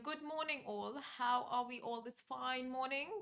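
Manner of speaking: polite English greeting voice; playful English accent with a questioning lilt; put-on English accent. Shown as a demonstration. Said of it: "I'll just do the English accent that I know".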